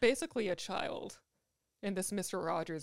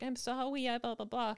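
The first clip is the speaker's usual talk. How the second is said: put-on high-pitched baby voice; 5 semitones higher than usual. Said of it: "weird high-pitched baby voice".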